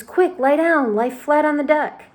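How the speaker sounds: high, loud orders; urgent shout. A narrator's reading. James ordering everyone flat on the deck, urgent shout. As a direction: get everyone down fast. Urgent warning under hail.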